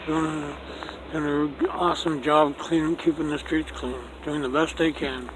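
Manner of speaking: talking around a cigarette; words mumbled past a cigarette; cigarette in mouth. Real, not acted. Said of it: "Got a cigarette in my mouth".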